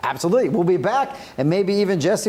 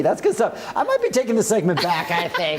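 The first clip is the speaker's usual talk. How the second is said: laughing; 2 semitones lower than usual. Real, not acted. Co-host teasing, laughing.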